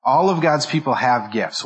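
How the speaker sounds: "All" brought out as the key word; stress on All. Shown as a demonstration. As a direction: put the emphasis on "All". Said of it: "Notice my emphasis".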